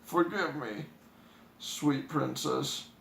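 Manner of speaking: lightly voiced man begging forgiveness; pleading huntsman.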